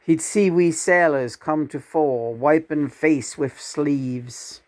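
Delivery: slow, deliberate verse reading; poetry recitation. Acted. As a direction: draw out the line endings. Recites a poem.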